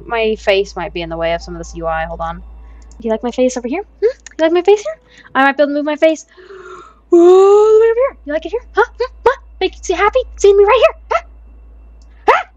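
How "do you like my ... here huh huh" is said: teasing. Pretend. Teasing audience about face position.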